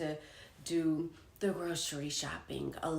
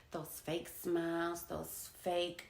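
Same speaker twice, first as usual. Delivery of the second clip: whispered, mocking the fake words; 3 semitones lower, 6 dB quieter, slower than usual. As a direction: breathe it out with scorn. Mocking fake caring phrases.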